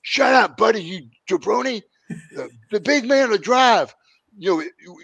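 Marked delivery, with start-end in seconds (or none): 0.0-3.9 imitating the Sheik. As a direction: play the stoned Sheik hyping the big man. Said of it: "the Sheik reaches up and just slaps Buddy".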